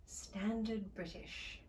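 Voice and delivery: crisp slow British accent; slow Received Pronunciation title; Standard British. Shown as a demonstration. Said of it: "Today's accent".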